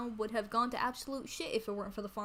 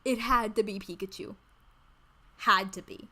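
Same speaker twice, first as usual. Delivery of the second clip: indignant rant; 7 dB louder than usual. Real, not acted. Indignant rant about Pikachu.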